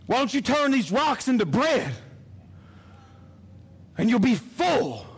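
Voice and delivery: the tempter coaxing, pushing up to a shout; enemy's voice. Acted. Preacher voicing Satan tempting Jesus, coaxing then shouting. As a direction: lure him in, then press hard. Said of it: "I know what his voice sounds like".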